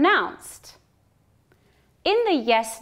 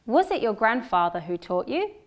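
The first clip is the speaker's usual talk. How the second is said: unstressed "Was" at the start; weak was in question. Shown as a demonstration. Teacher models the question with weak "Was". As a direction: say "Was" reduced and quick. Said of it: "listen to the sentences twice".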